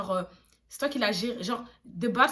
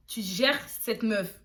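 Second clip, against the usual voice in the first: slow explanation; slower than usual. Shown as a demonstration. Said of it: "si je dis ksar style là, ça veut dire".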